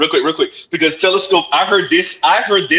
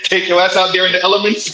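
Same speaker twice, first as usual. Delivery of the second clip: quoting through a laugh; laughing quote. Retold or imitated. Repeating a friend's line to the group, laughing. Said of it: "You wanna use my quote".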